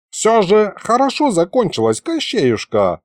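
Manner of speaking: put-on placating old man, starting high and easing down; smooth things over soothingly; conciliatory. A narrator's reading. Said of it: "примирительно сказал дед".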